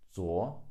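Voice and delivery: 昨 said alone with a rising tone; teacher isolates the first syllable of 昨天; second tone. Shown as a demonstration. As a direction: lift 昨 upward. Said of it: "second tone".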